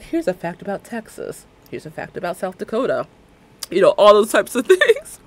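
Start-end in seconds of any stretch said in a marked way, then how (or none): 0.0-3.1 GPS voice. Retold or imitated. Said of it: "But it'll be like".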